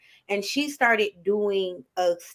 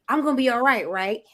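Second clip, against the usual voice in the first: seeking validation; 2 semitones higher than usual. Retold or imitated. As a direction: turn it into a hopeful plea for approval. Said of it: "we come to someone and we say".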